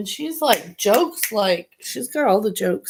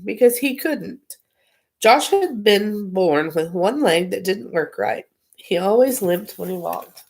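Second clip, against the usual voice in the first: put-on reading a children's book aloud; story narration; 2 semitones lower than usual. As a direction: read it like a bedtime story.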